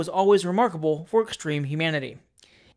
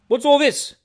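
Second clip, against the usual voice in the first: alarmed question; 9 semitones higher, 9 dB louder than usual. A narrator's reading. Doctor bursts into confusion.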